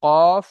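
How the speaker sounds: কফ shouted sharply, heavy from the tongue's root; qaf demo. Shown as a demonstration. Teacher showing students qaf's makhraj, loud emphatic demo. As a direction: hit কফ hard and loud. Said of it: "লাগিয়ে উচ্চারণ হয়".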